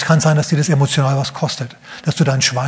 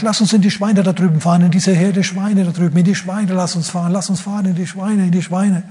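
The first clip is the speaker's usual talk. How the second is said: higher, pleading demon voice, a hint of it; begging demon; 4 semitones higher than usual. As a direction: beg like a cornered demon. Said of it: "bettelt er und sagt".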